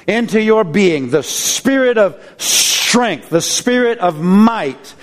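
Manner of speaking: slow, fervent intercessory prayer. Real, not acted. Pastor interceding for the weary congregation, fervent. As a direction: pray over them with rising force.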